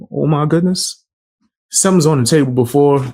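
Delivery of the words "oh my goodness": lightly mimicked catchphrase; mocking little impression; Lucas imitation. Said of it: "when he do the".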